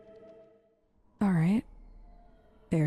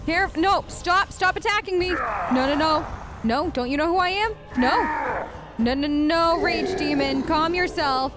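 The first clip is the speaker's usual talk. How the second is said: higher-pitched playful panic at an attacker; flustered protest; 4 semitones higher than usual. Pretend. Player pleads with an attacking demon, flustered. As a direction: fend them off, voice raised in pitch.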